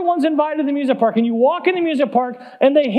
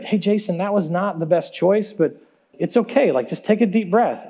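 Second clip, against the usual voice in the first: calm reassurance; 4 semitones lower than usual. Retold or imitated. Creator calmly consoles him.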